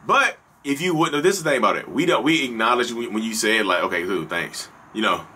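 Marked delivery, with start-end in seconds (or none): 3.8-4.7 flat thanks. Retold or imitated. Flat reply to wife's compliment.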